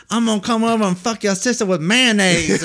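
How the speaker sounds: put-on loud, high redneck accent; redneck twang. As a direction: go all redneck with a twangy threat. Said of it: "some kind of, like, tang in his voice, and he went all redneck".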